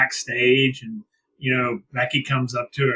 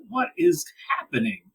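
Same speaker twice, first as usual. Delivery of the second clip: stunned disbelief; 12 semitones higher than usual. Retold or imitated. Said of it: "I was just like".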